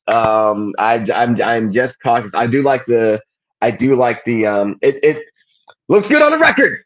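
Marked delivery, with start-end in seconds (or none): 5.9-6.8 pitched way up, sing-song; high mock voice. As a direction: toss it off in a high voice. Repeated catchphrase, pitch jumps high.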